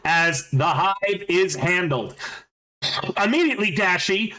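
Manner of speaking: slow, measured game master scene setting; GM narration. Acted. Game master describes the hive's collapse to players, slow narration. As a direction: narrate the wreck crumbling, taking your time.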